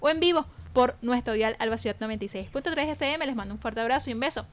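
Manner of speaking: projected radio presenter closing read; radio sign-off. Acted. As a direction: sign the show off like a radio announcer, lifting at the goodbye. Radio host reads the closing credits.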